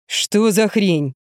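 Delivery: booming rough voice. A narrator's reading. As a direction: boom it out puzzled. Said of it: "гудел голос".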